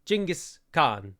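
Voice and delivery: "Genghis" said slowly as CHING-gis; approximated Mongolian pronunciation. Shown as a demonstration. Westerner attempting the Mongolian name, "Genghis" as Ching-gis. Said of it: "that's a poor pronunciation of it".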